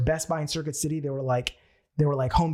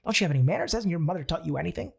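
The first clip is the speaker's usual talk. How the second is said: higher, nagging, scolding tone; whiny voice of weakness; 5 semitones higher, faster than usual. Retold or imitated. The voice of weakness scolding him, high and whiny. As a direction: play the doubting voice that nags him to stay safe. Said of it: "that weakness came up and said".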